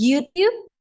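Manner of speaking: YouTube in an American accent. Shown as a demonstration. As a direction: model the American pronunciation of YouTube. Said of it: "हमारे पास है American में". (अमेरिकी लहजे में YouTube)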